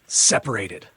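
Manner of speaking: loud, falling flat repeat; flat fury. Retold or imitated. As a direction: drop it flat with anger.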